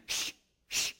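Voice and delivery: breathy hushing shush; whispered shush. Retold or imitated. Disciples silencing the blind beggars, whispered shush. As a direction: hush them down. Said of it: "disciples were doing".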